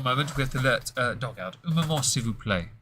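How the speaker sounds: mock French. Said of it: "French phrase".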